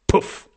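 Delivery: short voiced "puff" of a shot; mouthed gunshot. A narrator's reading. Man playing out shooting the clock, mimicked gunshot. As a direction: imitate a rifle shot with the mouth. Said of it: "schoss mit dem Munde".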